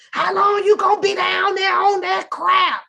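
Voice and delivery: loud, high yell down the stairs; mom yelling from upstairs. Retold or imitated. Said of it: "That's what my mom said".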